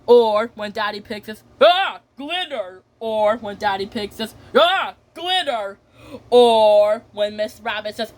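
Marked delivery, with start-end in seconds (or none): 1.6-2.8 high, slow acted "ah"; drawn-out exclamation. Daddy Pig comes upon glitter, slow high exclamation. 4.6-5.8 slow, high swooping "ah"; drawn-out exclamation. Retold or imitated. Child repeats Daddy Pig finding glitter, slow high exclamation.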